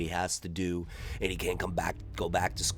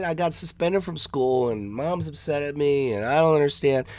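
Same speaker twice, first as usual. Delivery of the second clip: higher, earnest begging voice; pleading kid; 7 semitones higher than usual. Retold or imitated. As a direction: flatter Ralph and beg. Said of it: "he said".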